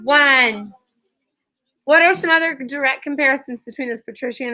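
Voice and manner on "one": countdown call to class. Real, not acted. Teacher counts down class attention.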